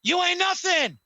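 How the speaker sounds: hammed-up Rock promo voice; Rock impression. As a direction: lord it over Cena like The Rock. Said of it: "The Rock goes".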